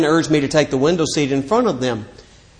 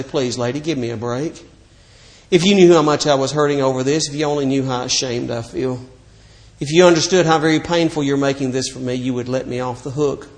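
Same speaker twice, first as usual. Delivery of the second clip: pleading; 2 semitones lower, 5 dB quieter than usual. Retold or imitated. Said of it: "I wanted to turn to her and say".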